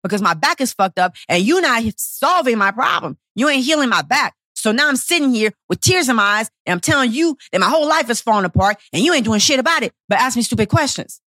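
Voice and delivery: retold indignant rant, mildly heated; touch of anger, pressing on without let-up; a little mad. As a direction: argue back as if exasperated. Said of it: "I was a little bit mad".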